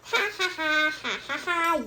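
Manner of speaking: mock laugh. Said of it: "I shall move my legs and laugh".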